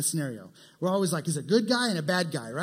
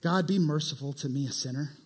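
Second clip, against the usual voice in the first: humble plea; 4 semitones lower, 3 dB quieter than usual. Retold or imitated.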